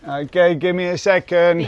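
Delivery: shouting to someone outside; calling out. Real, not acted.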